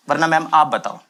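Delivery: normal talking voice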